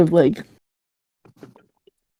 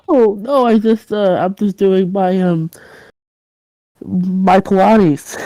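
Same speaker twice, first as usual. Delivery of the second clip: flustered excuse; 3 semitones higher, slower than usual. Acted. Invents excuse for the noise.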